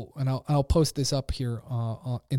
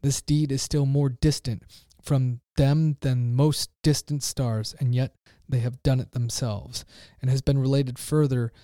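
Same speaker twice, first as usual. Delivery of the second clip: raised, intense reading of a philosopher's parable; dramatic reading. Acted. Preacher reading the madman's cry to his listeners, with rising intensity. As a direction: read it like a madman's sermon.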